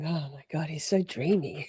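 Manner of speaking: soft, dreamy swoon; swooning gush. Acted. Streamer swooning over the doctor, soft gush. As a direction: gush quietly like someone smitten. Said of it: "stop gushing over Wolf".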